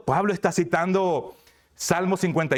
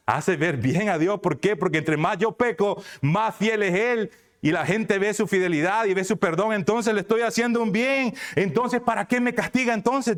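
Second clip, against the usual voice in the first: lightly voiced self-justifying sinner; 5 semitones higher than usual. Preacher voices sinners asking why God punishes them, protesting. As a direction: pitch climbing through the argument.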